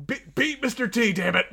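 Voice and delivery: loud high trainer's yell; Apollo Creed shout. Pretend. Cohost joining the Rocky bit, loud mock trainer yell. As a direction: urge the fighter on, playfully. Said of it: "you're doing Rocky Three Apollo right now?".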